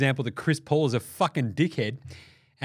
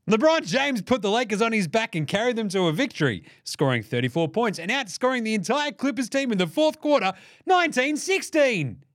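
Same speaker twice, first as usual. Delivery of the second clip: mock Magic tweet read; 6 semitones higher than usual.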